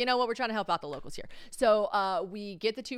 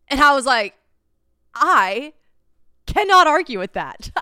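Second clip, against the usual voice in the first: mock stunned; 6 semitones higher, 13 dB louder than usual. Real, not acted. Stunned by friend's logic.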